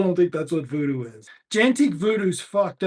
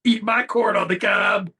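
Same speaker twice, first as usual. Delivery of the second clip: mock shout. Joke line, shouted with laughter.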